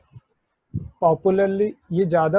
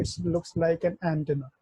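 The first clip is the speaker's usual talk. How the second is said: drawn out slowly and trailing softer; slow mnemonic; 5 dB quieter, much slower than usual. Shown as a demonstration. Teacher repeating the antenna trick slowly and softly. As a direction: say the memory line slowly, fading off. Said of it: "वैसे भी आप याद कर सकते हो".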